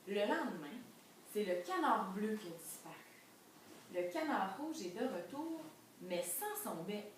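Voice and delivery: animated storybook narration, swooping emphasis; story reading. A narrator's reading. Teacher telling pupils of another missing duck, suspenseful storytelling. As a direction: read it out for children with suspense. Reads picture book aloud.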